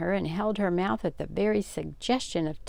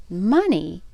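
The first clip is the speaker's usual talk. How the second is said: a disbelieving echo, louder; can't believe what she just heard; incredulous one-word echo; 7 dB louder than usual. A narrator's reading. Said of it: "echoed Catty incredulously".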